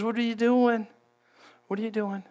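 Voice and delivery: softly asked, fading to hushed; intimate. Acted. Preacher voices God meeting Elijah intimately, softening to a hush. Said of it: "in an intimate way where God".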